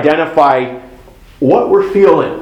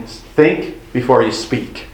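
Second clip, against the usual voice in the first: slow, softer recital of the saying; quoting the saying; 4 semitones lower, 4 dB quieter, slower than usual. Shown as a demonstration. Pastor slowly recites the old saying to the congregation. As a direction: say it slowly, like a familiar proverb. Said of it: "How many of you have heard the saying".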